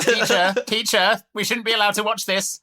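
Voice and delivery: put-on high, pleading kid voice; tattling to the teacher; whiny tattletale kid. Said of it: "narc kid".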